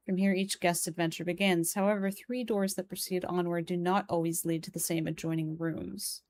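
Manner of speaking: measured reading of a written guide; guidebook reading. Acted. Player reads the room directory to viewers, measured reading. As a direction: read the house directory aloud evenly.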